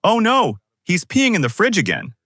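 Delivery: shriek. Acted. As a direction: shriek it out in alarm, way up high. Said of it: "Then Ethel shrieks".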